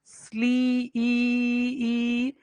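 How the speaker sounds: स्ली- drawn out, then the long ई alone, twice; vowel isolated. Shown as a demonstration. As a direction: hold ई high and steady, with gaps between. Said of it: "आपने जो, अ, vowel sound देखा".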